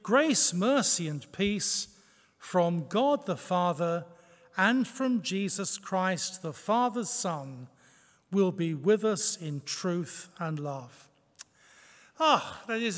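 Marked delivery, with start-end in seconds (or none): 0.0-11.1 scripture reading. Shown as a demonstration. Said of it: "verse three".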